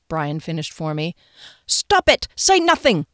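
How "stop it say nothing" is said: frantic plea. Acted. Begging coworkers to stop.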